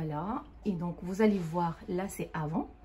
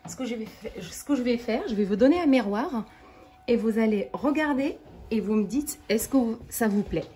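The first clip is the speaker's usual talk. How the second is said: excited; 3 semitones higher, 6 dB louder than usual. Real, not acted. Handing client the mirror eagerly.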